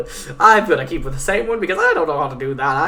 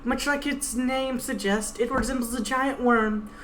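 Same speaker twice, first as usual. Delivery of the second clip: lightly voiced stern guide, pitched a bit higher; 8 semitones higher, 4 dB quieter than usual. Guide threatening the Pegasus at knifepoint, lightly voiced stern menace. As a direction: threaten coldly as the blade-holding guide.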